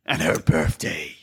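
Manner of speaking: deep, booming news-promo voice; mock news anchor. Host mocking American news promos in a deep anchor voice. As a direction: announce it like a TV news teaser. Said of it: "I want to do this on the podcast".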